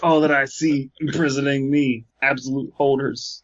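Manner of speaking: intoned, eerie line; mock-ominous recital. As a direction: chant it like a creepy incantation. Dramatic reading opener.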